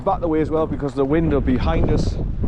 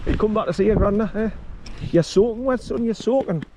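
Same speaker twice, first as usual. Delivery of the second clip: higher sing-song voice for the dog; doggy talk; 6 semitones higher than usual. Real, not acted. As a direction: coo at the dog, pitched well up. Fussing over the wet dog.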